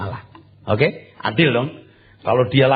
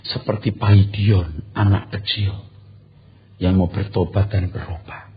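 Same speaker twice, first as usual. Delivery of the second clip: ordinary delivery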